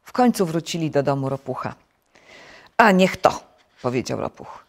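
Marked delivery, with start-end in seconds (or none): 2.8-3.4 loud, irritated outburst; vexed exclamation. A narrator's reading. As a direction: blurt it out in mild exasperation. Toad vexed at losing his button.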